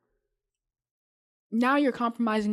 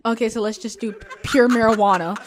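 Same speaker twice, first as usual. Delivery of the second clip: laughing joke; 2 semitones higher, 7 dB louder than usual. Real, not acted. Joking, breaks into laughter.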